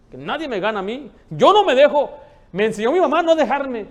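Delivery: loud, high, defiant declaration; combative boasting. Acted. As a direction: stand your ground at full voice. Acts out people who love fighting.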